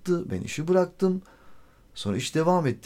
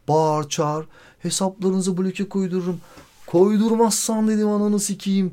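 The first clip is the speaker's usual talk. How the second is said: higher and louder angry threat, partly slowed; retold furious outburst; 7 semitones higher, 4 dB louder than usual. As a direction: fire back at her, enraged. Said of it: "Ya delirdim yani". (sabah sabah delirip kadına bağırarak, öfkeyle)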